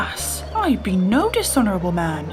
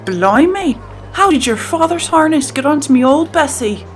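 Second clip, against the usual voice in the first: loud, higher-pitched pirate outburst; feigned astonishment; 6 semitones higher, 10 dB louder than usual. Acted. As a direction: bluster loudly like a pirate caught out.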